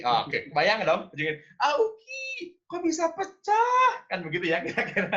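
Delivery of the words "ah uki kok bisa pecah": very high put-on mother's cry; shrill mother voice. Parent hearing a plate break, crying out very high. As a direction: squeak it like a flustered mum. Acting the parent's reaction again.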